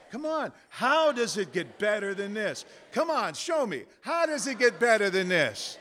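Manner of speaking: high, loud, eager dare; insistent challenge. Shown as a demonstration. Speaker daring the universe to show up, high insistent call. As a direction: call it out high, urging a response.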